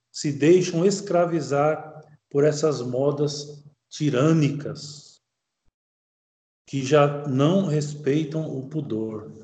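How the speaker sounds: slow, deliberate reading of a text; measured formal recitation with pauses between phrases; reading aloud. Acted. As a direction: read it out slowly, phrase by phrase.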